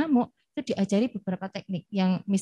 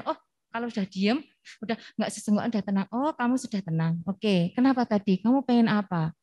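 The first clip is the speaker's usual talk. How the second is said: soft teacher voice; 4 dB quieter than usual. Shown as a demonstration. Teacher speaking to calmed child.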